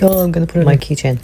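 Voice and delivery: a hint of a delighted landlord; imitating landlord. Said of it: "he was like".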